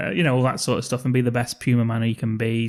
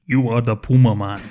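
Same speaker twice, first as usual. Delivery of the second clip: solemn mentor voice; 5 dB louder than usual. Retold or imitated. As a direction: intone it like a wise mentor. Danny Trejo's line acted out.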